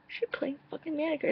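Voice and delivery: overwhelmed with joy; gasping excitement. Retold or imitated.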